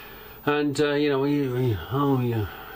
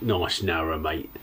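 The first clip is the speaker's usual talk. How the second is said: lower-pitched East End Cockney quote; Cockney accent; 5 semitones lower than usual. Retold or imitated. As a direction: imitate a passing Cockney bloke. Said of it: "proper Cockney accent".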